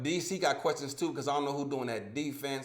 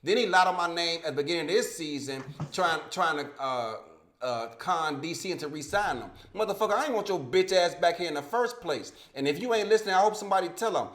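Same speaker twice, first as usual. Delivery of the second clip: heated, raised voice, higher and louder; real indignation, pitched up and forceful; angry rant; 4 semitones higher, 5 dB louder than usual. Real, not acted. Host calling out the man who lied on his name, angry rant.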